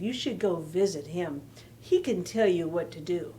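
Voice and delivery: gentle expressive read-aloud; picture-book storytelling; reading to children. A narrator's reading.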